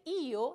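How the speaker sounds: "io" drawn out in two clear vowels, with force; stress as shown. Shown as a demonstration. Teacher showing the third-person ending, emphatic, separated vowels in "io". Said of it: "la i lleva acento".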